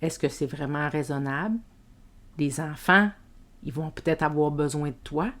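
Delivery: understated guilty inner voice; little inner voice. Acted. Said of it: "il y a une petite voix qui arrive".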